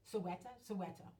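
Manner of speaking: Soweto with a slip into a Spanish accent. Real, not acted. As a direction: say "Soweto" Spanish-style, first asking, then settling. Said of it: "gave it a Spanish accent".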